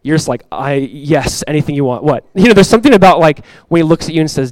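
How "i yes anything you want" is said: acting a softly melted parent; lightly played doting father; smitten dad. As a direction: give in tenderly, a little lower. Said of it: "you're just smitten as a dad".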